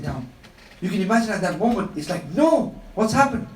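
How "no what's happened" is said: higher, drawn-out cry of dismay; shocked disbelief. Acted. Preacher voices the companions watching the water poured away, shocked disbelief. Voicing the Sahaba's shocked reaction.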